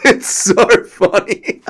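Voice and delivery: very high squeal through real laughter; cracking up, begging him to stop; wheezing, high-pitched hysterics; helpless laughter. Real, not acted. Helpless laughter at a fighter's scramble.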